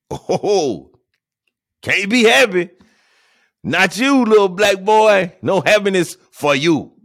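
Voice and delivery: high, loud sneering taunt; mocking taunt. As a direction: jeer at the little boy who dares to be happy. Mocking society's voice to boys.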